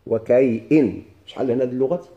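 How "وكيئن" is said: "وكيئن" as wa-kay-'in, hamza after the y; "وكيئن" with a break before -in; variant pronunciation. Shown as a demonstration. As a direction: pronounce "وكيئن" in clear syllables. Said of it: "كاين لغة".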